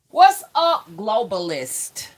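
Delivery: high, loud taunting hello; mock-cheery greeting; teasing shout. Real, not acted. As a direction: call them out playfully.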